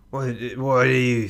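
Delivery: hushed, breathy whisper; whispered question. Acted. Captain asks the crew.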